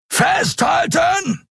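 very high, slow drawn-out shout; bellowing. Acted. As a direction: yell a warning before impact. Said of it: "brüllte Keru".

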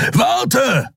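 high, called out urgently; urgent cry to wait; calling after him. Acted. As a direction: shout after the fleeing man. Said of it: "rief Kero".

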